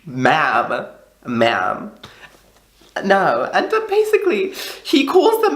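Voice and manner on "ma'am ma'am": sassy correction. Retold or imitated. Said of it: "I was like".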